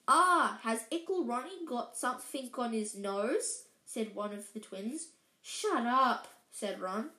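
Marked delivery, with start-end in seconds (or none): 0.1-3.6 mocking baby talk. Twin teasing Ron. 5.4-6.3 snapping. Acted. Ron snapping at twin.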